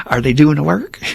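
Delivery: teasing impression of a Southerner, voice lifted; Southern accent. Old sponsor questioning his complaining sponsee, in a Southern accent. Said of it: "with that shit-eating Southern accent".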